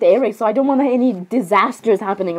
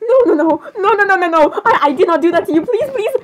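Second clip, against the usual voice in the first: pleading denial; 5 semitones higher than usual. Acted. Denying that she let him drown.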